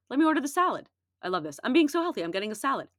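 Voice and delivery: sarcastic pleased-with-myself customer; smug, playfully mocking salad lover; mock self-satisfied. Mocking a diet-minded salad orderer.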